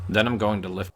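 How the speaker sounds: put-on American voice; American accent. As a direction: imitate an American talking cars. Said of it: "the way they say it".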